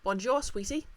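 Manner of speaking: a doting wife spotting her man; gushing wife. Acted.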